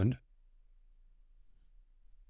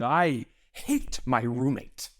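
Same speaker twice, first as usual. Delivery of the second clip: weak vitriolic attempt; 3 semitones higher, much slower than usual. Actor's feeble vitriolic line.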